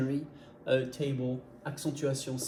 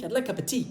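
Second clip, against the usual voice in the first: "like cup of tea" run together, small words eaten; good English rhythm; 4 semitones higher than usual. Acted. Someone speaks real English to a learner, rhythmic "like cup tea". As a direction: toss off "cup of tea" like a native. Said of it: "avec un vrai anglais, avec une bonne rythmique".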